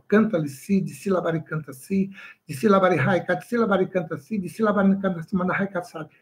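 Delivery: rhythmic, chant-like babble of tongues; speaking in tongues demo. Shown as a demonstration. Pastor demonstrating tongues to the congregation, chanting babble. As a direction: roll the syllables like praying in tongues. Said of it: "Imagina se eu começar a falar aqui".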